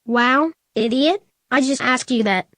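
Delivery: annoyed. Acted. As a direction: spell it out like she's dim. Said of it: "in an angry and annoyed way".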